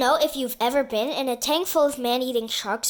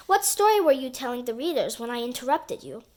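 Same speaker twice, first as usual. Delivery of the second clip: mouth full. Acted. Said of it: "through a mouthful of marshmallows".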